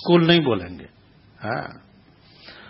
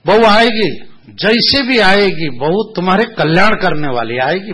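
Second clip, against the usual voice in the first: mock prophecy; 6 semitones higher, 5 dB louder than usual. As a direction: proclaim it like a solemn oracle. Guru pronounces a mock prophecy.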